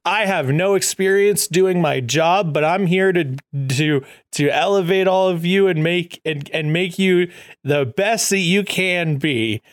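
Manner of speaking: lightly hammed-up earnest speech to staff; clueless new boss. New manager addressing the company, mock inspirational. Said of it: "comes in and he's like".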